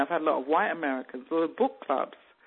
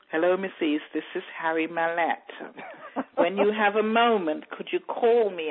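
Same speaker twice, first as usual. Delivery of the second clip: mock-serious caller, measured and formal; 2 semitones higher than usual. Former priest asking author to call back, very serious. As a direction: imitate a grave man leaving a message. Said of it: "he had this very serious voice".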